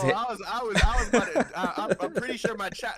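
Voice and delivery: high, giggly laughing voice. Real, not acted. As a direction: laugh while explaining. Laughing about his reaction.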